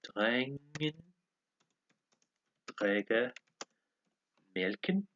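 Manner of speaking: careful words with long pauses between; slow language-lesson repeat; word-by-word repetition. Shown as a demonstration. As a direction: sound out each word separately. Repeats app's sentence for learners.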